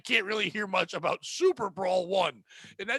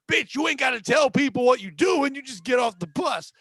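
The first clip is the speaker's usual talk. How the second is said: retold yelling; 5 dB louder than usual. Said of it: "they're just screaming over my goddamn heads".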